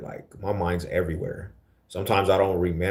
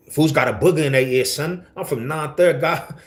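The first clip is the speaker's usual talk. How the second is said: hammed-up, high-pitched New York accent; mock a hyped-up Queens New Yorker, voice pitched up high; energetic New Yorker; 7 semitones higher, 4 dB louder than usual. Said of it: "you talk too energetic".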